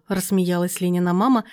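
usual speaking voice

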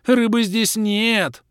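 high, loud, slow frantic squeal; shrill panicked creature wail, high and loud; wild wailing creature. Acted. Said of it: "Дико заблажил Лохр".

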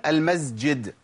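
المسجد with the س voiced into a z; buzzing z before the jim in المسجد; common mispronunciation. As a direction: say المسجد as "al-mazjid". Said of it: "في ناس بتقول".

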